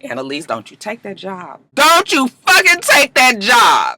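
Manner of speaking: pleading shout at Annalise; yelling at the TV. Retold or imitated. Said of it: "I said".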